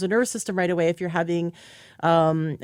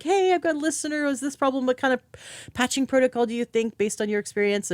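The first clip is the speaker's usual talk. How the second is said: much higher, lightly acted question; quoted message to Trina; 6 semitones higher than usual. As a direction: ask Trina in a raised, upbeat voice. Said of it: "I can always message her and be like".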